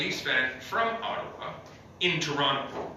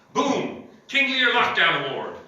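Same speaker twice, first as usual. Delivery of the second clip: excited announcement; 8 semitones higher, 6 dB louder than usual. Acted. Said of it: "award announcement".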